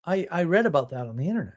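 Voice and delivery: eager know-it-all. Retold or imitated. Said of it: "And they go".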